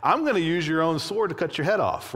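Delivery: mocking. Young David taunting the giant before killing him, mocking. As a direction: taunt him with lively mock bravado. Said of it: "like, mocking the giant".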